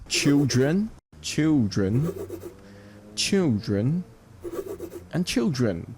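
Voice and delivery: put-on "children" with a prominent first syllable; CHIL-dren, light rising "dren"; separate, careful "children", weight on "chil"; stress on chil. Shown as a demonstration. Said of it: "They are all emphasis on chill".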